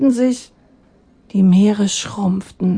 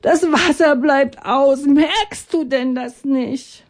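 people crying out; 5 semitones higher than usual. Acted. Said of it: "schrien die Menschen".

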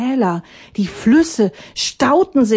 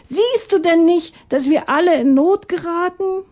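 high pleading voice of the crowd; people calling out; 9 semitones higher than usual. Acted. People calling up to Atanga, high and pleading. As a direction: plead up to the god. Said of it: "riefen die Menschen".

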